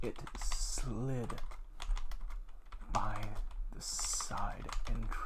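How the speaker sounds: soft, slow spooky reading; a soft, slow creepy storyteller voice; scary read. Acted. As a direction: hush it like a ghost story. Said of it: "Let's go for something scary".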